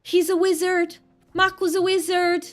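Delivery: amazed. Real, not acted. Streamer praising Maku's secret entrance, awed. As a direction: gush that he's a wizard.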